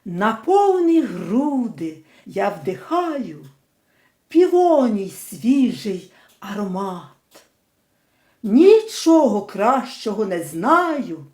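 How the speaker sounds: slow, measured recitation of verse; poem reading. Shown as a demonstration. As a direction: recite the lines like a school poem, unhurried. Reads poem aloud. (повільне декламування вірша)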